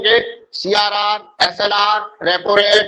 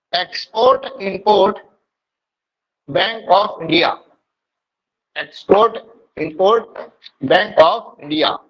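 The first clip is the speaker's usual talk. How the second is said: very slow, each word drawn out for notes; slow dictation; much slower than usual. Shown as a demonstration. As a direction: spell it out slowly for the class. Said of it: "Exim का full form लिखना". (धीरे धीरे लिखवाना)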